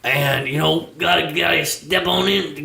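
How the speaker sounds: high, fast hype voice; album voice. Pretend. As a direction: push it like a promo hype-man. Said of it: "this is the voice from".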